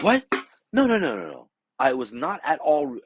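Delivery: high rapid mimicking protest; mock friend denial. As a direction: pitch up and rush his denial.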